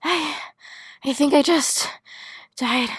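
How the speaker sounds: hard breathing, high pitch. After running laps, speaking to a friend, with heavy breathing. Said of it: "*heavy breathing*".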